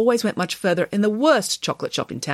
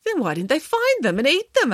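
higher-pitched baffled question; genuinely puzzled; 10 semitones higher than usual. A narrator's reading. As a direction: ask in sincere bewilderment. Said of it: "genuinely puzzled".

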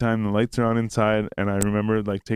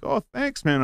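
put-on drunken thanks; 14 semitones higher than usual. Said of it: "me being like".

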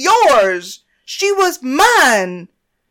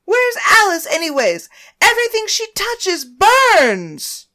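much higher, louder, near-crying rant; screaming through tears; 11 semitones higher, 9 dB louder than usual. Acted. Naomi raging at everyone about Paris, screaming in tears. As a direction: rage and weep at once.

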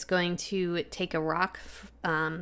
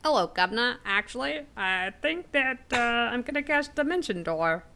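telepathic voice; 6 semitones higher than usual. Acted. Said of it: "speak in Rux's mind and say".

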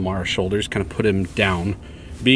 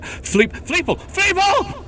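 calling out; slower than usual. Acted. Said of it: "Or, or just shouting out".

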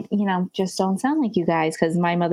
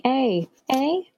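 put-on Canadian accent; 5 semitones higher than usual. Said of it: "started using your Canadian accent".

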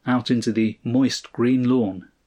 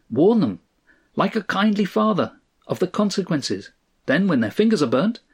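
pleasant, higher-pitched counsel; pleasant advice; 8 semitones higher than usual. A narrator's reading. Friend advising Stanley to warn them, pleasant. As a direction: counsel him with easy assurance. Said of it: "advised Cross, pleasantly enough".

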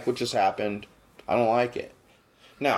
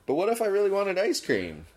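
higher-pitched protest as laughter subsides; insistent repeat; 9 semitones higher than usual. Real, not acted. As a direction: ask it again in earnest, pitched up.

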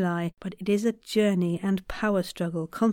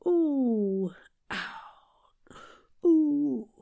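breathy ooh; 5 semitones higher, much slower than usual. Shown as a demonstration. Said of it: "really snatch it in".

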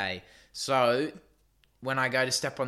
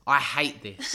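laughing; 3 dB louder than usual. Retold or imitated.

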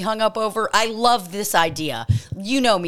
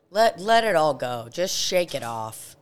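guided breathing; 4 semitones lower than usual. Real, not acted. Host leading a one-minute breathing session, calm guidance. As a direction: ease listeners down with a low, settling voice.

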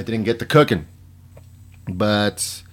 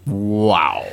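breathy whispered wow. Real, not acted. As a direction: whisper it in disbelief. Stunned reaction.

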